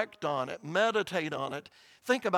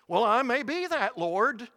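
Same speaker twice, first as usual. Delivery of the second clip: humble woman pleading; 6 semitones higher, 5 dB louder than usual. Retold or imitated. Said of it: "she's essentially agreeing".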